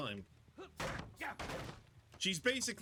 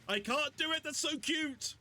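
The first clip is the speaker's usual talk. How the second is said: squeal; 11 semitones higher than usual. Real, not acted. Cooing over cute characters.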